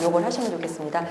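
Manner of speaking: ordinary delivery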